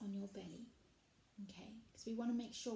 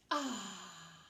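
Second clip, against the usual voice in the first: bunny breath sigh; 2 semitones lower than usual. Shown as a demonstration. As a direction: breathe out a contented ah. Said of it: "you're going to go".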